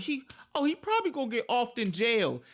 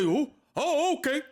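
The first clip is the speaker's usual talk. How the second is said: airy dithering mock of a clueless mom; mocking Jennifer; 5 semitones higher, 3 dB louder than usual. Mocking the mother who let it happen, dithering. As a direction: play her dumbfounded and spineless.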